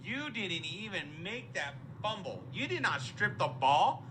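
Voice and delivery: ordinary delivery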